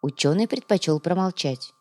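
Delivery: ordinary delivery, nothing marked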